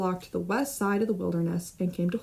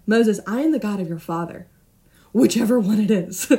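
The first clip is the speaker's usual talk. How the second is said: louder, quick, playful divine declaration; emphatic God voice; 6 dB louder than usual. Acted. God declaring himself to Moses, loud and playful. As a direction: proclaim it big, with a wink.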